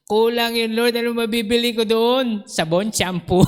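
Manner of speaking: mock-whine about too little money; pleading complaint. Retold complaint to God. (nagrereklamong pakiusap)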